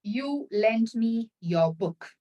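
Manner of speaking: slow, careful polite request; slow model request. Shown as a demonstration. Teacher slowly models a polite request for students. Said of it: "Absolutely fine".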